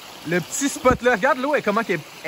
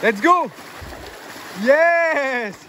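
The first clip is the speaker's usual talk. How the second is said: excited cheer; 4 semitones higher, much slower than usual. Real, not acted. Cheering a plunge.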